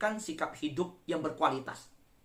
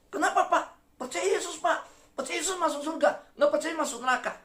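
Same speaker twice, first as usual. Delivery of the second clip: much higher, pleading between laughs; laughing plea; 10 semitones higher, faster than usual. Retold or imitated. Evangelist begging the neighbour to believe, laughing high. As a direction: mock-desperate begging, giggling.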